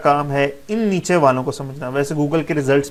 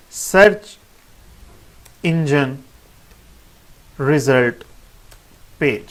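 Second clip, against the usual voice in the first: one word at a time, long pauses between; slow, separated teaching delivery; 2 semitones lower, slower than usual. Shown as a demonstration. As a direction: spell out the term slowly, each word standing alone. Spells out the acronym word by word.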